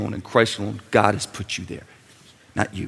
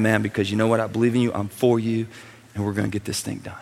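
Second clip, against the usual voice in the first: tender father. Retold or imitated. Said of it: "And I'll be saying".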